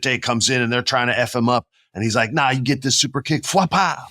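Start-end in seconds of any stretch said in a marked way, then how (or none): 2.3-4.0 sound effect. Retold or imitated. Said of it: "that's what it sounds like".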